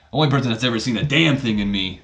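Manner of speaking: second still-bad try at Booker T; retry Booker T impression. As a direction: redo the line as Booker, no better. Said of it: "still bad".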